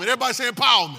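loud preacher call; rally the room to repeat; call to congregation. Real, not acted.

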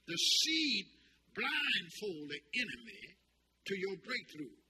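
slow, emphatic repeat for note-takers; deliberate dictation. Real, not acted. Preacher repeating a line to write down, slow and emphatic.

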